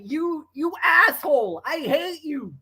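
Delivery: a teasing, hammed-up huff; mock angry insult. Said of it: "She was so P O'd".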